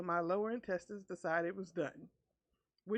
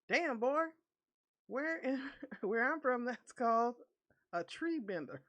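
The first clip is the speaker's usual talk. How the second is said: excited redneck buddy; 4 semitones higher than usual. Retold or imitated. Jimmy impressed by fart.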